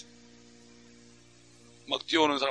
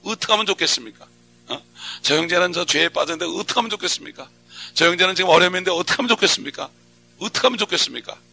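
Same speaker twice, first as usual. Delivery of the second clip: repeated plea climbing higher each time; rising plea; 4 semitones higher than usual. Pretend. Preacher reenacting praying all morning for a struggling brother. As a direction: keep pleading, pitch climbing. Repeated pleading prayer building.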